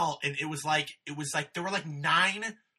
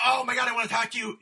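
gushing fan; 6 semitones higher, 6 dB louder, faster than usual. Retold or imitated.

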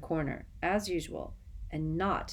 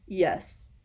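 curt. Acted. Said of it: "said Snape curtly".

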